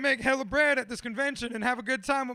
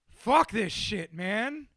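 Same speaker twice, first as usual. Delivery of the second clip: frustrated; 4 dB louder, much slower than usual. Real, not acted. Frustrated outburst.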